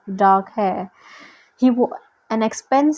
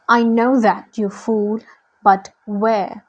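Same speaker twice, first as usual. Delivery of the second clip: usual speaking voice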